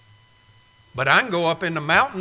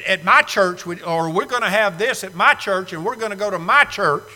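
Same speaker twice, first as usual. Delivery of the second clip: my leaned on each time; mild stress on my in my church; faster than usual. Shown as a demonstration. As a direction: mimic folks saying my church. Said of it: "what we mean is".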